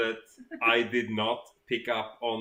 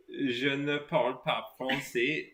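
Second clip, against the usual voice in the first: Swedish-accented French. Shown as a demonstration. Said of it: "say something in French with that accent".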